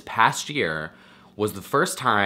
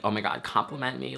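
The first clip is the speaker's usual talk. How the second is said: higher, quick mock plea for praise; mock compliment-fishing; 4 semitones higher, 4 dB quieter, faster than usual. Speaker parodying how they might sound, mock compliment-fishing. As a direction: toss it off fast and high, mock-needy. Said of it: "I know that that sounds like".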